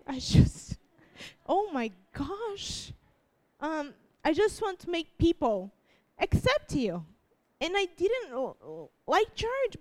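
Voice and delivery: crying. Real, not acted. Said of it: "why am I crying?".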